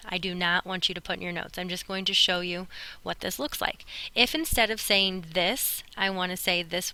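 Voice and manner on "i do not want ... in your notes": not pressed firmly and deliberately; stress on NOT. Shown as a demonstration. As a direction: repeat the warning and lean on not. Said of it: "I repeat".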